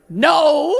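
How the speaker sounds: high, rising clueless "no"; baffled men. Acted. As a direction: answer like a man with no idea. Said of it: "all the men were like".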